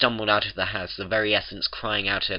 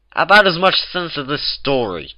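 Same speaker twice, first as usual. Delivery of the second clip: growl; 8 semitones higher, 9 dB louder than usual. A narrator's reading. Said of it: "Twilight growls".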